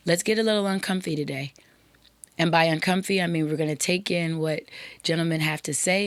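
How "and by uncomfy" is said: whispered aside. Real, not acted. Host clarifying the word for women listeners, in a whisper. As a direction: slip it in under your breath.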